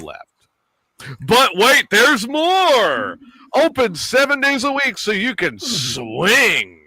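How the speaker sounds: lightly voiced pitchman read; infomercial voice. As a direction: sell it like a late-night ad. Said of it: "my infomercial voice going here".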